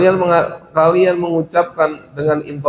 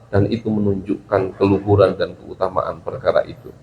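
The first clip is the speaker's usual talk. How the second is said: lower-pitched, measured deferential reply; polite, refined answer; 5 semitones lower than usual. Shown as a demonstration. Pupil answers teacher about last night's class, politely. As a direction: answer your teacher gently and respectfully. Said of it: "menjawab dengan bahasa yang halus".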